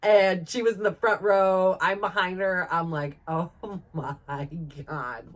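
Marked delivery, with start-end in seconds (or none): 3.3-5.3 laughing disbelief. Retold or imitated. Soaked on Matterhorn ride.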